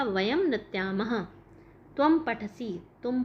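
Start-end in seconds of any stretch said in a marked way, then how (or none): 0.0-1.2 slow model answer. Shown as a demonstration. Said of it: "तो कैसे हो जाएगा?".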